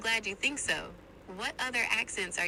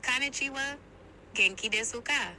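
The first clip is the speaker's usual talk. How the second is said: higher-pitched Japanese greeting; Japanese accent; 4 semitones higher, 3 dB louder than usual. Shown as a demonstration. AI assistant attempts on user's request, Japanese accent. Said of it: "Can you do an Asian accent".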